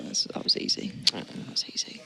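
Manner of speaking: lo dice quasi senza voce, come uno sussurro rilassato; imitating a calm player. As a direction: mimic a bored pro shrugging it off, barely voiced. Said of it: "Look, it's like".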